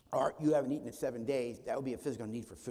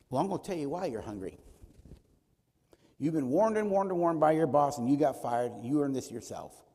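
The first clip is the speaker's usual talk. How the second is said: lecturing scold; 7 dB louder than usual. Retold or imitated.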